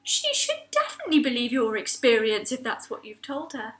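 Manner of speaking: reassuring octopus. Acted. The octopus tells Mac she was right, soft and reassuring. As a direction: back her up kindly.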